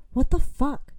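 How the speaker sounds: waking to a stranger, a shocked scream. A narrator's reading. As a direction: shriek it awake in shock. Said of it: "she screamed at the top of her lungs".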